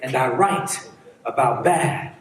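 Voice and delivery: low, slow closing refrain; spoken-word poetry. Acted. Street poet ending his poem, measured spoken word. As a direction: bring the poem to a deliberate close, pausing before the last word.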